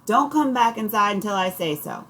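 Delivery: put-on aunt shouting kids off inside, loud; shouting mother. A narrator's reading. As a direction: bark the order after them. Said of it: "Aunt Minnie shouts".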